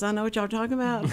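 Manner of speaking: quick, drawled Texas accent. Shown as a demonstration. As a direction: put on a Texas twang. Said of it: "I started talking like this".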